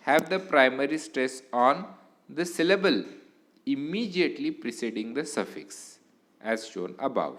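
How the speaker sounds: slow, deliberate rule reading; reading a rule aloud. Acted. Teacher dictating a grammar rule to students, slow. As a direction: read the rule out slowly for the class. Reads rule slowly from slide.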